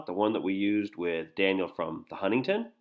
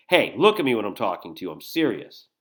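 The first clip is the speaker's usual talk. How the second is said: louder, mildly angry demand; a little angry; 6 dB louder than usual. Acted. Danny trying to attack Jill with words, mildly angry. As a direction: push the opening hard, a touch of anger. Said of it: "he seems angry".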